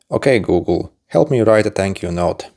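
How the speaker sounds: talking to voice assistant. Shown as a demonstration. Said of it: "You're going to need to say a few phrases".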